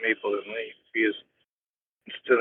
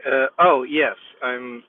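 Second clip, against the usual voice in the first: robotic, through the car speakers; talking through a car phone system. Real, not acted. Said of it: "sound more robotic".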